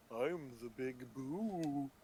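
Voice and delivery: slow quiet ghost voice. Acted. Voicing the Big Boo.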